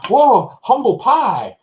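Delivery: high, slow, laughing mock of the kid's line. Dad mocking a teen character's line, laughing. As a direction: ham up the kid's corny exclamation. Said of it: "and he goes".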